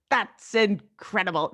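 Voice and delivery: slow, put-on comic intonation; John Mulaney impression. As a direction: attempt an impression, drawing the words out. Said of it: "I can't do a good impression".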